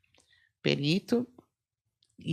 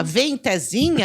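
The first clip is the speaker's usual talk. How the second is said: mock spooky call; 5 semitones higher, 5 dB louder, slower than usual. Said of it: "O tempo que você gastou pra falar".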